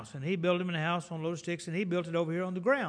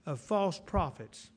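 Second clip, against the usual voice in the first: warning; 3 semitones higher, much slower than usual. Retold or imitated. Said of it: "He starts warning us".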